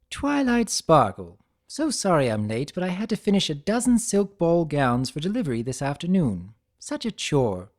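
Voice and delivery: refined, lilting society mare; elegant lady voice. Acted. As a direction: sweep in like a gracious lady. Rarity's character voice.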